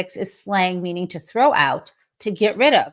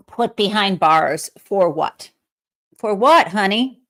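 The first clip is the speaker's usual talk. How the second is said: incredulous. Real, not acted. Host rebuts Gabbard, incredulous.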